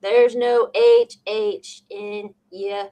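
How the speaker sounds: very slow, emphatic correction; drawn-out teasing correction; mock correction. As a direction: spell it out word by word, slowly. Mock correction of his pronunciation.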